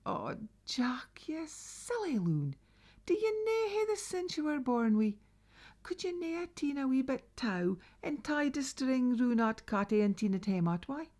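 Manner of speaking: a mother rolling her eyes at a daft son; scolding mother. Acted. Mother scolds Jack for dragging the cat home, exasperated.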